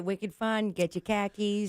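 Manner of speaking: put-on light Boston accent, dropped r's; a quick jokey Boston accent. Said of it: "that's the extent of my Boston accent".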